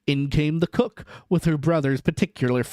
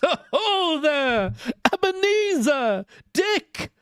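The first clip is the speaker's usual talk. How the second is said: much higher, slow hearty call; fat jovial voice; 12 semitones higher, slower than usual. A narrator's reading. Fezziwig calling his apprentices, jovial and much higher. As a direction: call out like a jolly fat old master. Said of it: "comfortable, oily, rich, fat, jovial voice".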